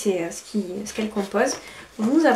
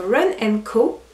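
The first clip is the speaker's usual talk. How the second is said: brand name Run and Co said with a light English accent. Real, not acted. Vlogger proudly says the box's English name, light English accent. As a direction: say Run and Co the English way, slightly put on. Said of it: "Vous avez vu avec l'accent".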